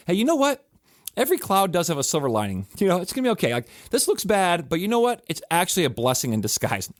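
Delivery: high, sing-song, falsely upbeat; mock cheery platitude. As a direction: parody a chirpy comforter who waves pain away. Mocking empty silver-lining comfort.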